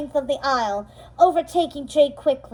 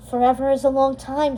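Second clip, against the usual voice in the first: warmly. Acted. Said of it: "said Fairy Godmother warmly".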